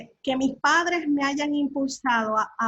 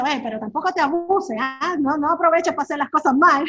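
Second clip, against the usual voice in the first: mock scolding; 2 semitones higher, 6 dB louder than usual. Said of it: "le dije".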